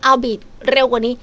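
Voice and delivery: high, loud, insistent complaint; loud demand. Pretend.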